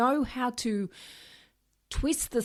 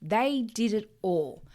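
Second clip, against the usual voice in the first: higher, self-righteous mimic of the ex; mock ex blaming; 4 semitones higher than usual. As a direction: play the blaming ex, pointing fingers. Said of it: "as a way to show everyone".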